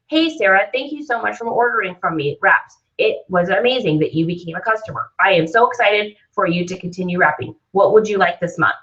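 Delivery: lightly robotic, scripted thank-you; a hint of a robot reading aloud. Shown as a demonstration. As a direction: read it like a canned customer message. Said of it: "it sounds like a robot".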